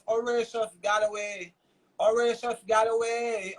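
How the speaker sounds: Horatius Galloway said slowly, each syllable spaced; slowly and deliberately say Horatius Galloway so it sticks; spelled out slowly. Shown as a demonstration. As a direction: Horatius Galloway drawn out for the audience to remember. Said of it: "Remember the name".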